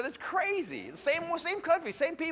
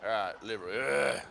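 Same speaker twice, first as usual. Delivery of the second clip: mock deep announcement; 12 semitones lower, 4 dB quieter than usual. Shown as a demonstration. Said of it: "I'll tell you when it's okay to laugh".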